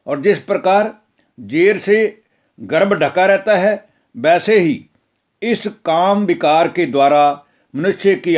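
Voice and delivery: measured devotional reading of the Gita; scripture recitation. Acted. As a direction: read it like a solemn religious discourse, steady and reverent. Gita discourse read as scripture. (धार्मिक प्रवचन की तरह गंभीर पाठ)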